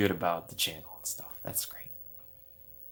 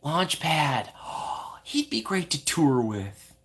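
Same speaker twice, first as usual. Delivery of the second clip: mock gushing fan; 5 semitones higher, slower than usual. Gushing fan over character.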